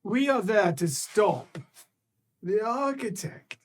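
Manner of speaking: a lightly voiced sly being; secretive creature voice. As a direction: speak as an ancient knowing creature. Creature speaks to players.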